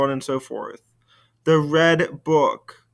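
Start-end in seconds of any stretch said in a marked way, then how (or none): 1.4-2.8 "The red book" said slowly, each word weighted; slowly stressed "The red book"; slow emphatic. Shown as a demonstration. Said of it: "It's not just any old book".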